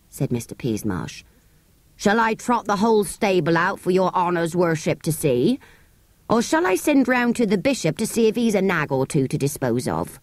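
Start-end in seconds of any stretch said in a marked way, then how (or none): 2.0-10.2 sarcastic horse dealer. Acted. Horse dealer mocks the boy.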